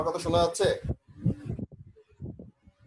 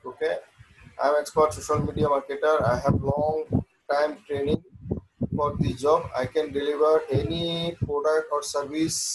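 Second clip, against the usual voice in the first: slow dictation; much slower than usual. Acted. Dictates gig text slowly.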